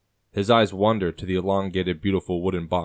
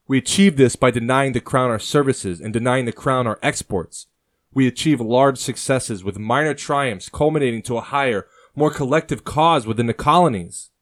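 higher, louder, building impassioned speech; rally him with rising fervor, louder and higher; passionate rant; 6 semitones higher, 7 dB louder than usual. A narrator's reading. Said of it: "Thomas stops his passionate rant".

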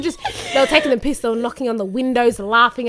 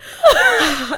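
a single resigned sigh at the siren; one sigh; 3 semitones higher than usual. Retold or imitated. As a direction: sigh once, long and tired. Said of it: "literally all I did was one sigh".

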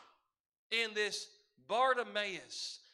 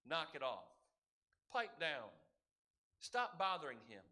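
hushing; 7 semitones lower, 5 dB quieter than usual. Acted. Believers hushing the seeker.

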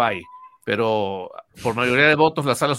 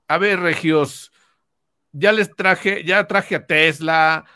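slow, strutting brag; boastful; 3 semitones higher, 4 dB louder, slower than usual. Retold or imitated. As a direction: puff yourself up, slowly. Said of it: "pavoneándose de sus últimos logros".

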